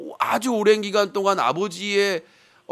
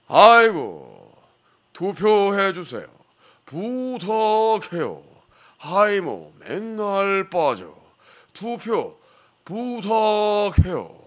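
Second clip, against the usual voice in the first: slow speech with every word stretched out. Announcer introduces a guest commentator urging viewers to vote, in a Lee Deok-hwa impression. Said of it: "이덕화 해설위원입니다".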